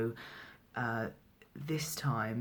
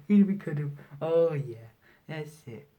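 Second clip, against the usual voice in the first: higher voice for fussing over a cat; pet talk; 4 semitones higher, 7 dB louder than usual. Real, not acted. Speaker breaks off to stroke the cat, high pet talk. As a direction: coo to the cat as you stroke it.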